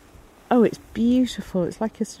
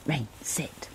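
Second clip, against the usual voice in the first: soft whispered order to the dog; whispered command; 6 semitones lower, 12 dB quieter than usual. Real, not acted. Whispered command while hiding.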